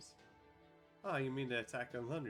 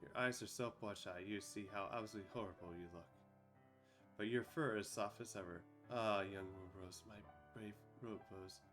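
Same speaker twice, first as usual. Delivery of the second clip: tender, fading; 3 semitones lower, 6 dB quieter than usual. Acted. Dying queen speaking tenderly.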